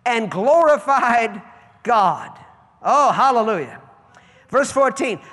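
loud, slow preaching with drawn-out words. Acted. Pastor to congregation about the healed woman, slow loud preaching. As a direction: lean into every phrase for the congregation.

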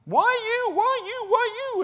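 high, strained, loud mock protest; hammed-up believer yelling at God over the harvest. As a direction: throw a hammed-up tantrum at heaven. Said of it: "yelling at God".

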